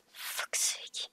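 soft, unvoiced muttered curse; muttered under breath. Real, not acted. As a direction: mutter it barely aloud. Muttered reaction while reading.

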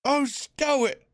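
mock the warden; mocking reply. Crowd member mocking the warden, jeering. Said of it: "came a mocking reply".

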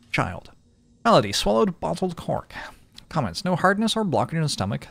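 lightly voiced prim healer reading notes; reading a journal aloud. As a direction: read the entries like a fussy doctor.

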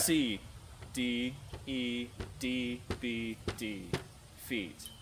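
slow, letter by letter with gaps; slowly sounded out. Shown as a demonstration. Reading the riddle's letters to the friend, slowly sounded out. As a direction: spell each letter out separately and slowly. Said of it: "A little faster".

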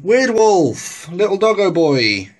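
high, loud cooing as if to a dog; playful pet talk. Pretend. Showing off his little doggo toy, playful pet talk.

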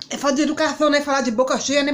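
talking with mouth full. Real, not acted. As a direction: speak through a mouthful of food. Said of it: "eu tô falando igual Dona Rúbia".

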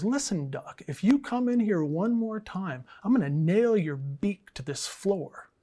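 emphatic acted threat, rising then settling; mock warning. Hardware salesman threatening a pestering duck, mock stern. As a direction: lay down a mild comic ultimatum.

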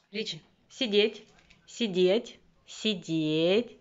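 dog command. Real, not acted.

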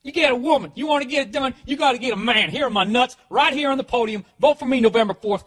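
high, loud mock campaign yell; shouted stump speech. Candidate yelling at voters from the podium, mock stump speech.

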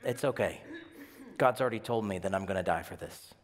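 soft, laughing reassurance; calm laughing. Retold or imitated. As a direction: shrug it off with a chuckle. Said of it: "he said".

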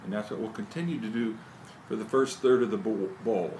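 talking around pipe stem; pipe in mouth. Real, not acted. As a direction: lips clenched on pipe. Seen 1: Pipe clenched in teeth while talking; briefly removed around 2.0-2.3s.

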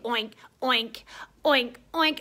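mouthed piggy oinking; pig oinks. Pretend. Reader makes pig sounds with the children, playful oinks. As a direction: oink like a pig. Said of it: "and a pig".

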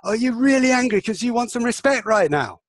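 high, intense matching energy; energetic empathy. Shown as a demonstration. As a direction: meet their anger with energy. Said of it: "I'll match them energetically in empathy".

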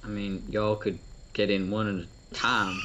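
put-on playful Southern US accent; light put-on Southern accent. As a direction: say it like a Southerner, just for fun. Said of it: "I can also do a southern accent".

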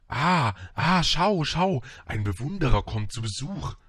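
loud, high, delighted vain call; calling from afar. A narrator's reading. Vain man hails an approaching admirer, loud high call. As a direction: hail a visitor from a distance, showing off. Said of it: "rief der Eitle von weitem".

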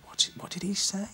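high, puzzled what-did-he-say; mock confusion at a thick accent; baffled inner voice. Bandmates baffled by the new guitarist's accent, high puzzled. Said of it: "looking at each other thinking".

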